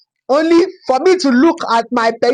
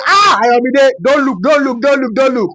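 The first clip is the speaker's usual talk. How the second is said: urgent inner warning; 3 semitones higher than usual. Acted. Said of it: "My mind is say".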